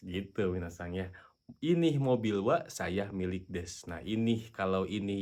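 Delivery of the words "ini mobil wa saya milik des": slow, deliberate dictation; slow model sentence. Shown as a demonstration. Teacher showing the reversed sentence slowly. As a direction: say it slowly, word by word. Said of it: "kalau dalam bahasa Jepang".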